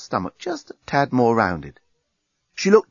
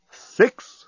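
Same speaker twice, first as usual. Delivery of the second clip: higher, louder countdown voice; talking bomb; 13 semitones higher, 6 dB louder than usual. Acted. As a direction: call the number like a bomb. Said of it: "said the bomb".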